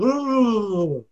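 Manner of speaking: words smeared into one droning noise; imitated run-together speech. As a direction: garble it into one long wordless "ooh". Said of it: "put no spaces between the words".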